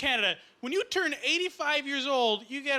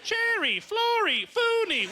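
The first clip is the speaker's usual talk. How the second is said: rising higher and louder with each name; silly names; 11 semitones higher, 3 dB louder, slower than usual. Acted. Mocking silly names, climbing higher and louder. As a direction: squeal them like a kids' show.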